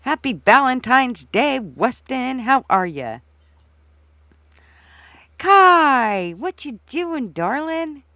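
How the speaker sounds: high, bright Valentine greeting; cheery greeting. Real, not acted. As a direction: sing out a cheery hello. Greeting listeners on stream.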